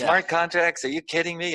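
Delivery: very high mock indignation; mock angry friend. Friend yelling about smart contracts, high mock outrage. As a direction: squeal it in disbelief. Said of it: "I'd have them yelling at me".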